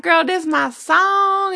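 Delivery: mock Southern holler, high and stretched out; slow, high-pitched Southern impression; real Southern accent. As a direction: imitate his loud Southern drawl on a favorite song. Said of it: "it's, like, this real southern accent".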